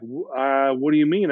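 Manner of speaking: halting start, mildly baffled; deer-in-headlights confusion. Retold or imitated. Client caught off guard by counselor's question, imitated bewilderment. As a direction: stammer into a puzzled question, imitating her. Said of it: "like deer in the headlights".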